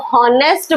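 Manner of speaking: HONEST starting on a clear consonant H; honest with sounded H. Shown as a demonstration. Teacher warns pupils about the consonant sound, HONEST with its H sounded. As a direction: say HONEST as "hon-est", H not silent. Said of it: "इसको honest बोलोगे तो definitely consonant".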